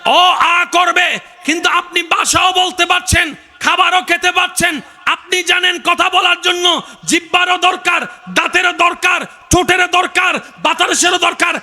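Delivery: high-pitched, drawn-out sermon delivery; fervent preacher in full cry; impassioned preaching. Acted. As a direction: preach it high and ringing, stretching the phrases.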